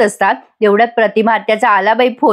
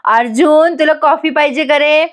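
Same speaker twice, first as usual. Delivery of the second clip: higher-pitched, retold call-out; mild mock yell; 5 semitones higher than usual. Grandmother calls to Arjun about coffee, mild mock yell. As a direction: call it out lightly, pitch raised. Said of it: "Purnaji मोठ्याने ओरडतात".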